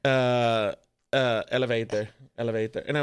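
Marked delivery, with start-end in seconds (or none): 1.5-2.8 put-on Norwegian accent. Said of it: "he was like".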